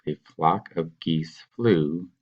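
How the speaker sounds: slow classroom read of "A flock of geese flew"; slow reading aloud. Shown as a demonstration. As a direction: read out slowly, word by word. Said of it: "So this sentence says".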